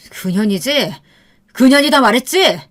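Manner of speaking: sudden loud, threatening voice; menacing new voice. Acted. Boyfriend turning threatening at his girlfriend on the phone, menacing. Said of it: "한 번도 들어본 적 없는 목소리로".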